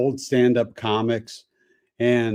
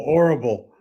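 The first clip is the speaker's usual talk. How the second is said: horrible. Shown as a demonstration. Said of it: "You did that well".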